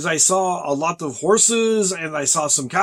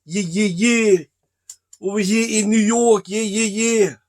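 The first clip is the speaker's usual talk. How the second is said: higher-pitched New York accent impression of a friend; 4 semitones higher than usual. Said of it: "I can do my friend Rory".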